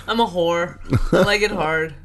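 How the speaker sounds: laughing through a saucy joke. Real, not acted. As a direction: laugh it out, cheeky. Joking self-mockery with laugh.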